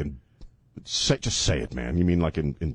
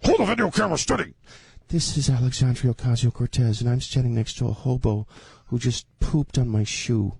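bossy woman voice. Acted. Acting as her filming.

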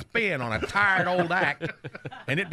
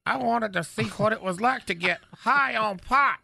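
Knucklehead's voice; 3 semitones higher than usual. Acted. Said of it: "still doing Knucklehead's voice".

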